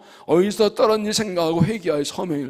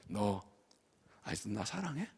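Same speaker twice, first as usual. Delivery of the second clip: softer, gentle asking; tender quiet question; 9 semitones lower, 16 dB quieter than usual. Acted. Jesus asking fallen Peter, soft and tender. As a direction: ask it softly, tenderly.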